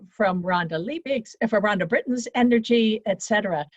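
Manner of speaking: ordinary talk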